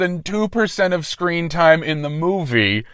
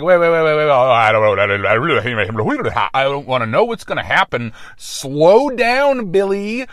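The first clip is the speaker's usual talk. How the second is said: panicked listener; 2 semitones lower than usual. Retold or imitated. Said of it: "so that you have a chance to be like".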